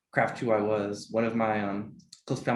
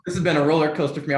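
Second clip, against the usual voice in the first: emotional; 6 semitones higher, 7 dB louder, much faster than usual. Real, not acted. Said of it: "Sorry, I'm so emotional right now".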